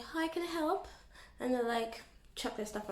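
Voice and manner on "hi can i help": higher customer-service voice; sweet shop-assistant hello; retail greeting. Retold or imitated. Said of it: "and you're like".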